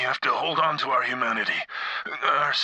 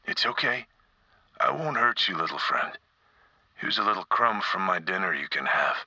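gentle coaxing; 3 semitones lower than usual. Acted. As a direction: coax a shy creature out. Coaxing a frightened rat.

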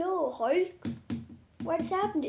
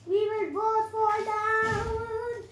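slow, higher-pitched warning, play fear; mock alarm; 4 semitones higher, slower than usual. Kid warns rival toy while falling, slow mock alarm. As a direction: stretch it out like you're about to fall. Toys tumbling in pretend fight.

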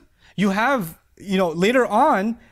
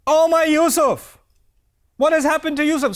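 grieving lament; 7 semitones higher, 4 dB louder than usual. Acted. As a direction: plead for the lost son. Father Yaqub lamenting lost son.

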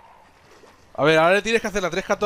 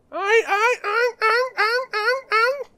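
panicked cries; slower than usual. Real, not acted. Panicking at game creature.

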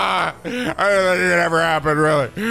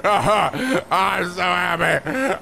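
laughing with joy; much slower than usual. Acted. Bowser hugs the grunt happily.

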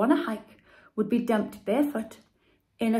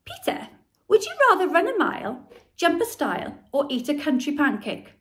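sweetly; 6 semitones higher, 5 dB louder, faster than usual. A narrator's reading. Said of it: "said Henry sweetly".

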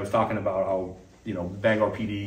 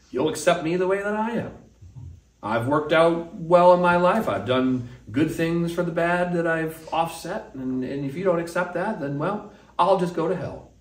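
mock the proud sinner's bluster; arrogant dismissal; 6 semitones higher than usual. Arrogant man lecturing God about his terms, smug mockery. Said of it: "we can be arrogant ... and go".

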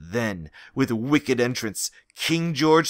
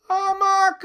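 battle call. Acted. Hero's battle call arrives.

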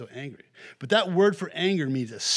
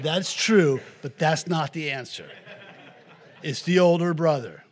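teacher correcting; 6 dB louder than usual. Retold or imitated. Teacher voiced correcting child.

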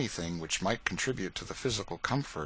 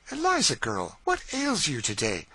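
higher, louder voice of a concerned mistress; mistress's voice; 7 semitones higher, 4 dB louder than usual. Acted. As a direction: play the mistress, puzzled and kindly. Mistress questions upset servant.

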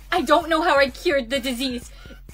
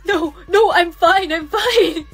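panicked denial; 6 dB louder, slower than usual. Acted. Denying infection, panicked.

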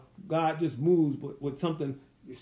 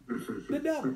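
dramatic reveal; 7 semitones higher, 5 dB quieter, slower than usual. Acted. Punchline reveal of the devil.

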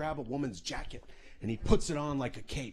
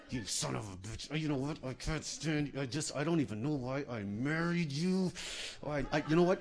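through her teeth. Retold or imitated. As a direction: spit it through gritted teeth. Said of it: "like, through her teeth".

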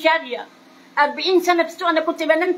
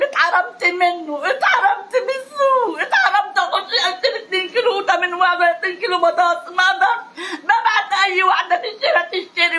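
crying; 3 semitones higher than usual. Real, not acted. Woman breaks down telling her loss.

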